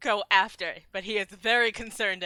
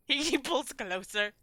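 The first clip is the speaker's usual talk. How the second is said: usual speaking voice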